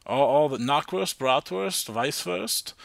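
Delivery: put-on the sausage names said with a light German accent; slipping German accent. Host listing German sausages in a slipping mock German accent. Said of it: "more accent again just comes out".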